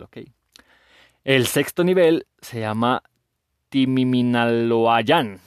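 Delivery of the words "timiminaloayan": very slow, drawn-out syllables; careful sounding-out. Real, not acted. Host reading a hard Náhuatl level name, carefully sounding out. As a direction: stretch each syllable of the unfamiliar word. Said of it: "sí, sí lo leí bien".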